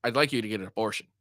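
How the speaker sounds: low, quick and understated, imitating kindness; a touch of kindness, voice dropped low; retold kindly request. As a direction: quote him as mildly and kindly asking. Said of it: "He was very kindly just said".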